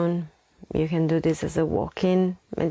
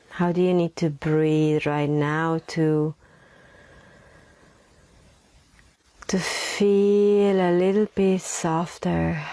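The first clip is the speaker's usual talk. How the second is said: unhurried meditation voice with long pauses; guided meditation. Acted. Leads a breathing meditation.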